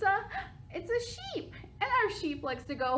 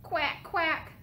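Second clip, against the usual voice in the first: duck quack; 5 semitones higher than usual. Shown as a demonstration. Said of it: "our duck likes to go".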